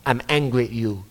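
a hint of an old man's slurred speech, chuckling; mock-grumpy old friend, laughing through it; imitating old man. Pastor imitates old Oom Frans complaining, light slurred voice. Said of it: "he had that problem with his speech".

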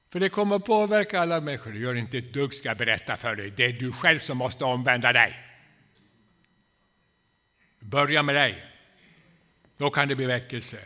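loud, driving preacher's rebuke; fervent preaching. Acted. Preacher rebuking the congregation to repent, loud and insistent. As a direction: hammer it at the listeners.

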